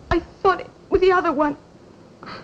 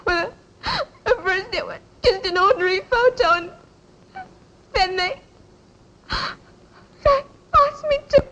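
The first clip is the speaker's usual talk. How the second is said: sobbing; 6 semitones higher than usual. Acted. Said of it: "the mistress will see you've been crying".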